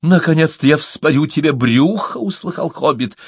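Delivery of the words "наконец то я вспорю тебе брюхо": high, fierce hiss of rage; hissing like an angry cat. A narrator's reading. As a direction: spit it out like a furious cat. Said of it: "зашипела бы разъярённая кошка".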